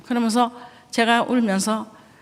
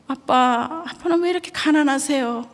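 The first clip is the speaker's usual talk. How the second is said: put-on high, tearful child's plea; sobbing boy; 4 semitones higher than usual. Son crying to his father at the table, tearful plea. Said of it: "흐느껴 우는 거예요".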